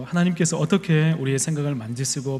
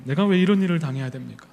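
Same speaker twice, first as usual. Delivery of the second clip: higher pitched, resentful whine; aggrieved complaint; 5 semitones higher than usual. Retold or imitated. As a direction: complain that it is not fair. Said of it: "막 마음에 화가 나기 시작하는 거예요". (억울하게 높아지는 항의)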